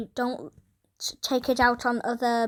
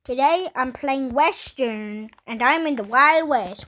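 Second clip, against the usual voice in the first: put-on Texas cowboy accent, playful; 4 dB louder than usual. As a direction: greet the viewers like a Texas cowboy. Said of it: "speaking in the Texas Western voice".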